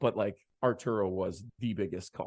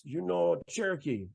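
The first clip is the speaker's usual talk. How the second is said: higher, lively voice of the bandleader on the phone; imitating Arturo; 7 semitones higher than usual. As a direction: lightly play the excited bandleader. Arturo quizzing songs.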